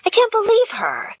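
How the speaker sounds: fierce high whisper of disbelief; exasperated whisper. Acted. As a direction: hiss it under your breath, exasperated. Gretchen fuming at voicemail.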